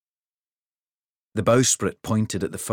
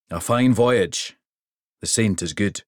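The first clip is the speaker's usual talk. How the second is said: a big king pleased with the trip; hearty king; 2 semitones higher, 5 dB louder than usual. Acted. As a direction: mountain of a king, hearty and louder. King's voice.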